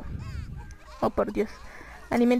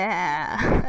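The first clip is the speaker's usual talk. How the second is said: low drawn-out "ah", imitating zombies; mock a zombie's droning moan; zombie groan; 5 semitones lower than usual. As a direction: groan a lowered, annoyed zombie noise. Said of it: "ese sonido de".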